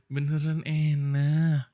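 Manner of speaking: slow, drawn-out reassuring words; slow reassurance. Real, not acted. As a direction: coax her gently, taking your time. Reassuring the sulking wife. (menenangkan istri yang ngambek, pelan dan lembut)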